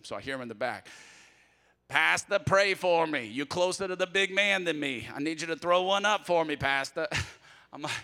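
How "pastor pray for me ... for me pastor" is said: louder, pleading Cajun man; godfather pleading. Retold or imitated. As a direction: call out from the hospital bed. Sick godfather calling to pastor.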